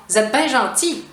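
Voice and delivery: "Vous êtes" cut to "zette", "bien" as "ben"; familiar contraction. Shown as a demonstration. Teacher giving a casual example, contracted pronunciation. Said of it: "on va même pas dire".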